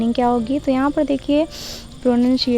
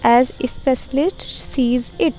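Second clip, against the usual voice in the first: slow dictation reading; much slower than usual. Acted. Dictates a comprehension question.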